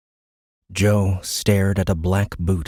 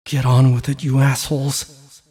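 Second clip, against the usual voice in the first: a tense, louder defiant snarl; defiant thought; 6 semitones higher, 3 dB louder than usual. A narrator's reading. Joe facing his executioners, defiant and angry. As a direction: spit out the defiance. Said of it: "Joe thought".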